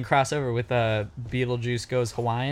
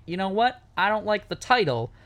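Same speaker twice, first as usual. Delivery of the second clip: fussy producer voice; 7 semitones higher than usual. Retold or imitated. Producer's message voiced in story.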